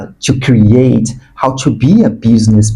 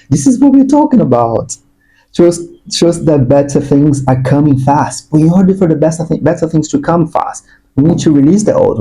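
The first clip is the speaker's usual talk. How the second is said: higher-pitched excited urging; too excited; 4 semitones higher than usual. Real, not acted. Reader urging the collective to release the old, too excited. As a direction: get carried away with rising excitement. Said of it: "I'm getting too excited".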